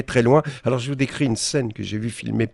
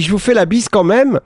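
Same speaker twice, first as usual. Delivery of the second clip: much higher, squeaky mock fan voice, a bit louder; 10 semitones higher, 6 dB louder than usual. Columnist mocks a fan greeting Dupont-Aignan, high and gushing. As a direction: play the gushing fan lady, pitched way up. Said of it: "la dame dit".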